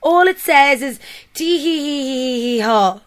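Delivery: mild mock yell. Hint of a yell at the teenager. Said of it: "Yaz yelled".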